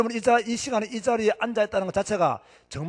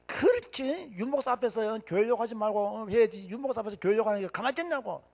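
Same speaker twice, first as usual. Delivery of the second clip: lightly voiced aunts making a fuss; mildly acted family telling-off; retold scolding aunts; 2 semitones higher than usual. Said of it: "우리 이모가 또 난리 났어요". (이모들의 꾸지람을 가볍게 흉내)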